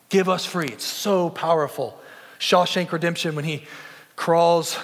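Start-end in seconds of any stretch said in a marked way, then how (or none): 0.1-0.7 stronger plea. Retold or imitated. Cinque's repeated plea grows stronger.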